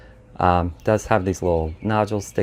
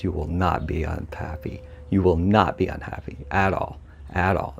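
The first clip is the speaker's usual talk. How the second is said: whisper. Real, not acted. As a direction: lean in and whisper the promise. Urging viewers to buy.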